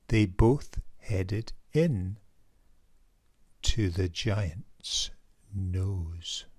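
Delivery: put-on lively read-aloud for children; rhyming storybook narration; story narration. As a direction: tell it like a bedtime picture book. Reads picture book aloud.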